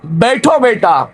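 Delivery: slow, tender father's invitation; mild sweet fatherly tone; honeyed tone. Acted. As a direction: gently coax the son to sit. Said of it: "लहजे में थोड़ा शहद मिलाकर".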